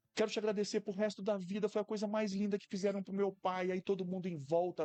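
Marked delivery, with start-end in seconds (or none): 0.1-3.7 mock heartfelt tone through tears, crying. Retelling a woman's thanks as she hugged the speaker, imitating tearful thanks. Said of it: "ela me abraçando e chorando".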